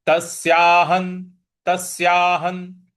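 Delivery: तस्याहं slowly, ending on n; visarga as n. Shown as a demonstration. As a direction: stress the s and close तस्याहं on n. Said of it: "इसका उच्चारण भी हमें न". (तस्याहं के अंत में न् की ध्वनि)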